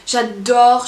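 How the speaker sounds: sudden loud gushing j'adore; a loud, thrilled j'adore; excited burst. Real, not acted. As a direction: blurt it out with delight. Gushing over pixel art app.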